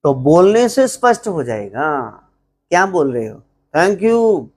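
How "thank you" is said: sarcastic thank you. Shown as a demonstration. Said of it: "but, बट्टा मार रहे हो".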